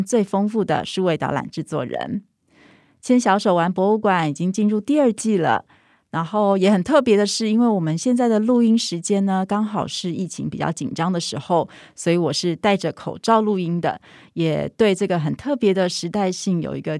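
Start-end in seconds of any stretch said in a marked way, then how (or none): 3.0-14.0 muffled speech behind a mask; talking with a mask on; through a face mask. Real, not acted.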